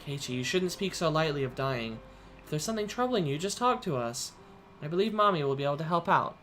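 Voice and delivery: mother gently tells her son to share his worries. Acted. Mother to son on the phone, lightly voiced worried mother.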